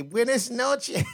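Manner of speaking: slow high drawn-out buenas noches; mocking drawn-out goodbye. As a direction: stretch the Buenas noches slowly. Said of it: "and then she say".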